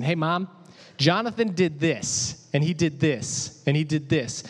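put-on tattling child. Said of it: "me going up to my mom saying".

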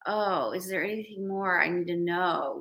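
genuine invitation. Shown as a demonstration. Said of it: "that genuine".

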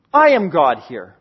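steady, grounded repeat; low echo. Acted. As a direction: let it settle low.

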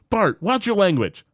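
a hint of a stern mother; imitating Marge. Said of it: "And Marge is like".

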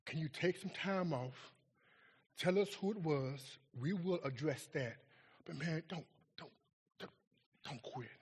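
pleading pastor. Retold or imitated. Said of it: "He said".

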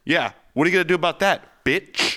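furious customer telling him off; angry. Acted. Angry argument with gym caller.

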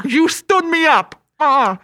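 put-on New York Italian accent. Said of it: "a New York accent".

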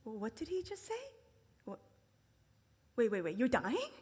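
loud confused outburst with laughs; mock shock at the news; bewildered disciples. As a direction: sound baffled and alarmed. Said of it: "makes you kind of like".

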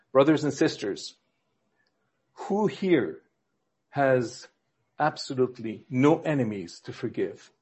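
measured solemnity with weighty pauses; solemn preacher. Acted. Pastor asks his congregation who has no enemies, solemn. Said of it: "a real solemn moment in the sermon".

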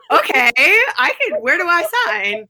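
high, eager and breathless with delight; giddy mock enthusiasm; thrilled. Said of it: "I was like".

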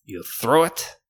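shopkeeper's fake French accent; horrible French accent. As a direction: show off the wares in bad French accent. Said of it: "With this horrible French accent".

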